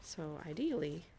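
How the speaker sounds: put-on Irish accent, like Father Ted; chatty mock-Irish brogue slipping towards Scottish. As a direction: do your best amateur Irish accent. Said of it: "I've always had an accent redeem".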